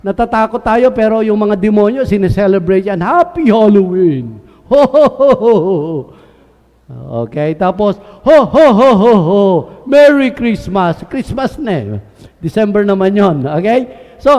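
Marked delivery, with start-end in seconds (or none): 3.0-6.0 mock party cheer. Preacher mocking Halloween revellers, hammed-up cheer. 8.2-11.0 loud hammed-up ho ho ho; Santa laugh. Preacher playing Santa for the congregation, jolly loud laugh.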